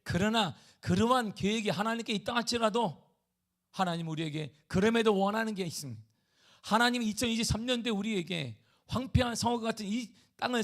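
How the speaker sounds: loud, high, driving sermon voice; forceful preaching. Acted. Pastor urging the congregation to pray, full preaching force.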